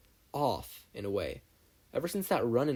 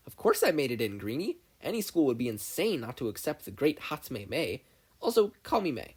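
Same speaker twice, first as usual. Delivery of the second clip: put-on cocky girl's voice, pitched up; confident Mei; 3 semitones higher than usual. Mei boasting to Izuku outside the lab, cocky. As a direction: boast like a proud inventor.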